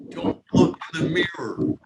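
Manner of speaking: wife yelling from the next room not to look; retold yell. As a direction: call out the warning loud and high. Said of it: "I remember her yelling".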